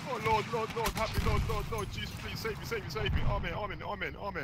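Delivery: high, rapid-fire pleading chant; hammed-up begging to the Lord; mock desperate prayer. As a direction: repetitive high-pitched praying, easing off at the amens. Mock desperate prayer during game.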